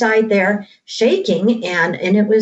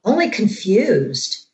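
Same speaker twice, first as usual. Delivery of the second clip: hushed creeping horror. A narrator's reading. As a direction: read it like a creeping horror tale. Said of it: "I'm gonna read this part from the book".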